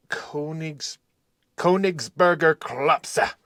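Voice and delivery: slow, sounded-out "Königsberger Klopse"; "Königsberger Klopse" drawn out carefully; careful German pronunciation. Shown as a demonstration. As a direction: say "Königsberger Klopse" slowly, as a tentative German attempt. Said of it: "I think that's how you pronounce it".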